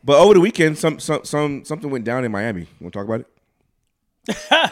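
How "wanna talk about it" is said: slow, drawn-out tease; slowly teasing the friend into the aliens story; teasing slow invitation. Pretend. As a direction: dangle the topic slowly.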